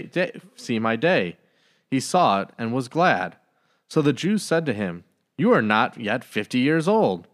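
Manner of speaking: calm, measured gospel reading; scripture reading. Acted. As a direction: read each verse steadily and reverently. Reads the gospel aloud.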